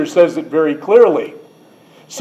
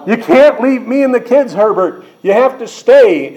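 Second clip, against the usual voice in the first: mock pleading wife; 6 semitones higher than usual. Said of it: "the wife says".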